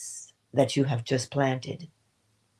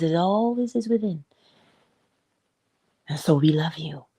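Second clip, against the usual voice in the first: tender whisper. Real, not acted. Whispered affection.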